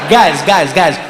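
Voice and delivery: loud mock African rallying cry, ending on a high huh; rally the guys with a shout; excited calling out.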